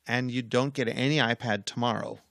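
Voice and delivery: quietly firm, retold warning; unyielding calm parent. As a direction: lay down consequences without raising your voice. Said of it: "I don't wanna scream at them".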